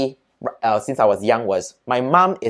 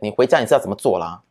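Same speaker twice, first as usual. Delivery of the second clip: threatening mom; 3 semitones lower, faster than usual. Retold or imitated. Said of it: "Then she said".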